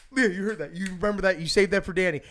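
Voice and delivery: loud, high re-enacted excitement; excited retelling. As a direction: act out urgently getting someone's attention. Retelling own excited words to Leah.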